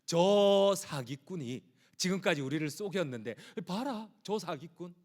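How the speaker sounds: scornful name-calling, slowing at the end; contemptuous jeer. Retold or imitated. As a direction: spit out "swindler" with contempt. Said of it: "이렇게 얘기를 해요".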